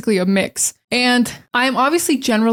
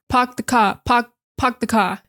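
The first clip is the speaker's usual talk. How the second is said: New York accent. Shown as a demonstration. Teacher contrasting New York "park the car" with Boston. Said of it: "New York".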